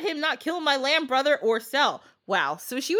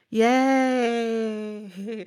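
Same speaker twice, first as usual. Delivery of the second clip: bright laughing cheer at the happy ending. Real, not acted. Host cheers the fairy tale's happy ending, laughing. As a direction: cheer like the tale just ended well. Story ends happily.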